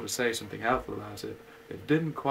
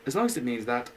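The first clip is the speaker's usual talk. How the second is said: humbly; 3 dB louder than usual. Acted. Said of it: "said Pooh humbly".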